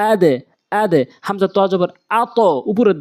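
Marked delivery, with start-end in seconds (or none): 0.1-1.0 আদে with the dal bouncing downward; downward bounce. Shown as a demonstration. Teacher showing the downward echo on dal, downward bounce. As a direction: bounce the end of আদে down to a light e. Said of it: "নিচের দিকে sound".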